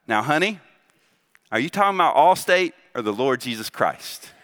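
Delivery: lightly imitated Southern nurse; southern accent. Nurse answering a patient's mom about trust, lightly Southern accent. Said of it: "the nurse in this southern accent".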